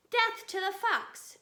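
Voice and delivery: loud high battle cry; shouted. A narrator's reading. Bunce shouting as the machines attack. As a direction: roar it out for the kill. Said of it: "shouted Bunce".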